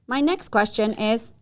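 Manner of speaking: loud, slow imitation of a stiff interviewer; mock scripted interviewer. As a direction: plough on to the next question, mockingly deliberate.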